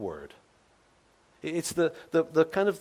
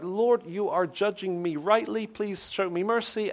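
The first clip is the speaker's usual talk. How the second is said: raised plea; 5 semitones higher than usual. Retold or imitated. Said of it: "It's like".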